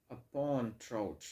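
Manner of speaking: "Upon trout" drawn out slowly, with weight on "pon" and "trout"; slow stressed scansion. Shown as a demonstration. Teacher scanning a poem line for students, slowly. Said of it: "P O N".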